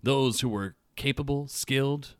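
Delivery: measured, dramatic read-aloud with deliberate pauses; best reading voice. Real, not acted. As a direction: read the lore aloud, lowering the line endings. Reading faction lore aloud.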